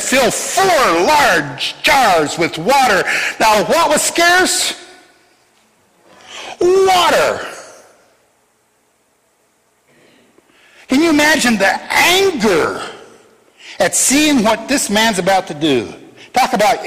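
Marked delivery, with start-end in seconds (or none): 0.0-3.0 slow commanding shout. Acted. Elijah's command, shouted slowly. 3.4-15.9 excited exclamation. Real, not acted. Preacher stressing how scarce water was, high excited call. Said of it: "preacher's excited rhetorical question".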